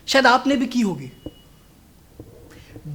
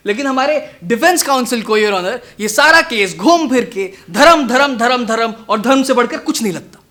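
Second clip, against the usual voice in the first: louder, emphatic closing argument; forceful courtroom accusation; 5 dB louder than usual. Acted. Lawyer faulting defence counsel before the judge, forceful accusation. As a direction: hammer the repeated word at the judge.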